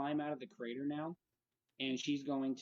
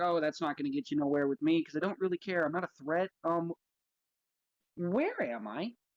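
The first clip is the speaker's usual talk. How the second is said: utterly self-assured, highly confident character voice; 3 semitones higher, 6 dB louder than usual. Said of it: "highly confident".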